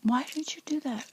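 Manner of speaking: retold outburst. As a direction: fling the words out like a sudden outburst, then whisper. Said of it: "has an outburst and says".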